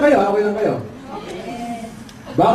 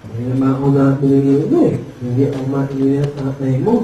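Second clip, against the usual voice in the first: low, muffled imitation of garbled speech; cleft-palate customer; 8 semitones lower, faster than usual. Customer complaining to the son, imitated cleft-palate speech. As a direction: complain low with mushy consonants. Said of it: "ngongo din".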